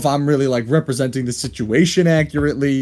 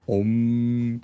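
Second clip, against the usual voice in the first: humming bee drone; buzzing insect voice; 3 semitones lower, 4 dB quieter than usual. Acted. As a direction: hum it like a meditating bee. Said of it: "bee drone impression".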